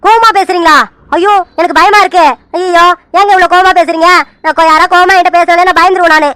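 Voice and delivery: teasing, badly faked fright; mock-frightened pleading, mildly put on; pretend fear. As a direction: play scared to tease an angry caller. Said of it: "நானும் பயப்படுற மாதிரி நடிக்கிறேன்".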